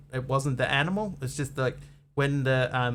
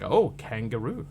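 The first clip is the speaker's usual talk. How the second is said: mock settler; 2 semitones lower than usual. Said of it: "the European people were going".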